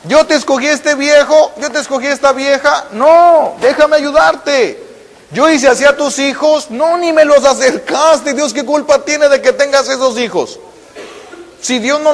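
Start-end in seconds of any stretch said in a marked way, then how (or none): 0.0-10.6 pleading God. Acted. God pleading with the suffering believer, high and loud. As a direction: beg them to let you help, high and strong. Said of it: "Es lo que dice Dios".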